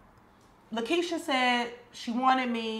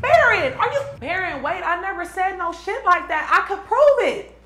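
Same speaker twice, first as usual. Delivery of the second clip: frantic plea; 9 semitones higher, 8 dB louder than usual. Acted. Frantic plea to departing friend.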